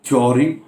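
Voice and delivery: THEORY said as "thyo-ree", two syllables with a y-glide; common mispronunciation. Shown as a demonstration. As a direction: say थ्योरी with a rounded "thyo". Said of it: "उच्चारण गलत".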